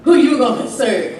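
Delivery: full-voiced sermon delivery; preaching. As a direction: preach it to the congregation.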